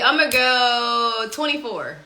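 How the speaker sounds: confident, committed guess; with conviction. Real, not acted. Player locks in a quiz guess, with conviction. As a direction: commit firmly to the answer. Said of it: "I said that with conviction".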